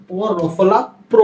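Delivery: প্র said with a clear o, "pro"; প্র sounded as "pro", the vowel o audible; o-sound after pro. Shown as a demonstration. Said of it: "ওকার কিন্তু চলে আসছে উচ্চারণের সময় প্র". (প্র উচ্চারণে ও-কার স্পষ্ট)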